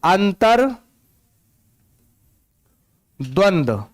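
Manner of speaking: अंतर्द्वंद drawn out very slowly while writing it; writing the correct अंतर्द्वंद on the board, slowly; slow spelling demo. Shown as a demonstration. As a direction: dictate अंतर्द्वंद slowly, syllable by syllable. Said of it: "लिखते हैं पहले तो हम सही".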